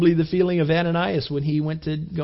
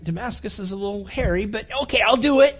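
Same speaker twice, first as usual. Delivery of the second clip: reluctant agreement; 5 semitones higher than usual. Retold or imitated. Ananias reluctantly accepting the Lord.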